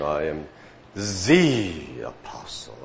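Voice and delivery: imitating a proud man, leaning on "the" in "I am the apostle"; slow "the apostle", the word "the" weighted as if unique; mock pride, pressing "the" before apostle; stress on the. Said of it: "emphasizing the word "the".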